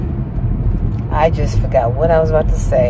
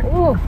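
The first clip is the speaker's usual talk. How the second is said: nauseous groan and sigh; 3 semitones higher, 7 dB quieter than usual. Real, not acted. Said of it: "kinda nauseous".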